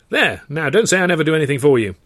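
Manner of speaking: put-on high, loud and hammy old trouper; hearty theatrical gent. A narrator's reading. George gushing to Arthur about the contest, hearty theatrical. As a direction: play the grand showman gushing.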